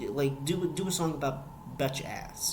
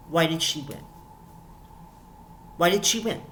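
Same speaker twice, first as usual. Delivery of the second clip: exasperated outburst; 3 semitones higher than usual. Real, not acted. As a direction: throw it out in full disbelief. Repeated outrage peaks.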